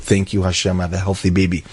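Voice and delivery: a touch of quiet weeping gratitude; tearful thanks. Retold or imitated. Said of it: "he was crying his eyes out".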